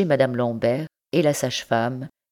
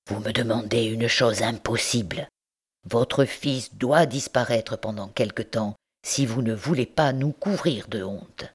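a hint of held-back anger; colère contenue; 2 semitones lower than usual. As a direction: scold her without raising the voice. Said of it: "d'une voix dont il tâchait de contenir les éclats". (oncle qui retient sa colère pour ne pas être entendu)

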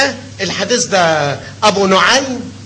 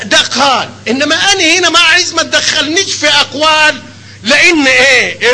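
raised insistence; 5 semitones higher than usual. Real, not acted. Heated point, raised voice.

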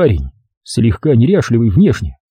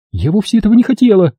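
higher and quicker, insistent; repeating it; 10 semitones higher, faster than usual. A narrator's reading. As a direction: say it again, faster, pleading. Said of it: "повторила она". (вдова повторяет оправдание быстрее)

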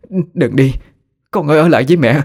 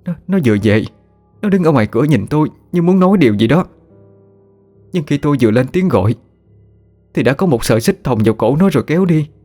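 high, rising, frantic grief; a mother begging her husband to believe her; distraught pleading; 7 semitones higher, faster than usual. Acted.

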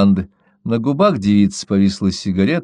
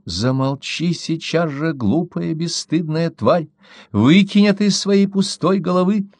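indignant outburst; 8 semitones higher, slower than usual. A narrator's reading. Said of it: "возмущённо закричала Керри".

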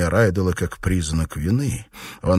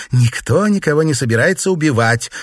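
stepping in; 9 semitones higher, 6 dB louder than usual. Acted. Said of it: "вмешалась Калетта".

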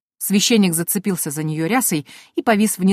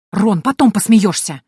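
irritated bark; 3 semitones higher, 5 dB louder, slower than usual. Acted. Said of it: "раздражённо рявкнула я".

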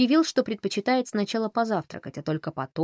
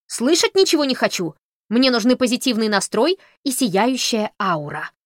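loud, higher protesting cry; shouting; 5 semitones higher, 6 dB louder than usual. Acted. Holly yells that he needs positive energy. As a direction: refuse to hear it, yelling. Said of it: "закричал Холли".

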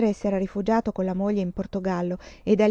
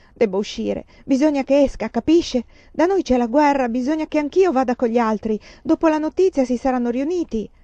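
agitated pleading; 4 semitones higher, 4 dB louder than usual. Acted. Frantic girl begging to leave.

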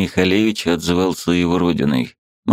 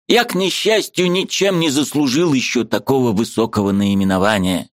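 high, eager voice of a Ukrainian friend; lively high-pitched friend arguing; Mikhalevich's voice; 6 semitones higher than usual. A narrator's reading. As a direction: play the excitable friend up high.

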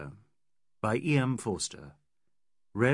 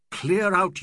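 loud cry; 7 semitones higher, 7 dB louder than usual. Acted. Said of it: "and cried".

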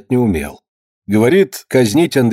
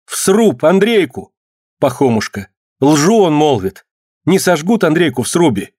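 alarmed; 5 semitones higher than usual. Acted. Alyona alarmed at burning news.

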